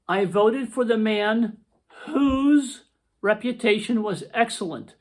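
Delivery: slow, careful read of the example; reading a sample sentence. Shown as a demonstration. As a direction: read it out slowly so the class can follow. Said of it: "here's another sample sentence".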